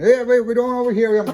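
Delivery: very high, loud voice. Retelling what a tire seller said: imitating a fast-talking man with an accent. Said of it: "you just talk like this and just talk real fast".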